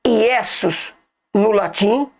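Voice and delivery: slow, careful Iesus said ee-EH-soos; teaching the Latin pronunciation; Latin name Iesus. Shown as a demonstration. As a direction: spell out Iesus slowly, the Latin way. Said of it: "é Jesus no português".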